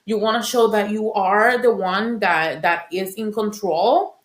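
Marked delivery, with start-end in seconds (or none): 0.0-2.2 fighting back tears with a small laugh; teary-eyed. Real, not acted. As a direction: voice catching as the emotion rises. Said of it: "I'm getting a little teary-eyed".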